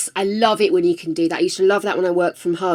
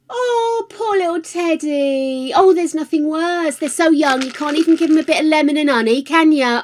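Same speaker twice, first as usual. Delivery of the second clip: sympathetic; 6 semitones higher, 3 dB louder than usual. Real, not acted. Sympathising over a sick little one.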